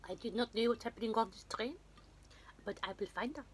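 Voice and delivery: put-on a clumsy, half-hearted French accent; mock French detective, badly done, drifting German; amateur French accent that slips toward German. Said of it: "He's got a really bad French accent".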